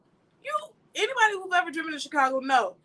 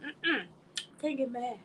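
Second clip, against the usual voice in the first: mock church folk; 8 dB quieter than usual. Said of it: "some church folk that'll say".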